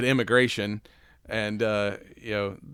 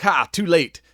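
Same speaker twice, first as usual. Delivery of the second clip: louder, higher mocking taunt; gloating villain taunt; 6 semitones higher, 7 dB louder than usual. Villain taunting the couple who chase him, louder and higher mock gloat. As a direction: rub it in with a sneer.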